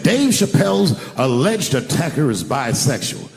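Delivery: slow, deliberate mock headline; measured quote of a news headline; headline read-out. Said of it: "That was the headline in the article".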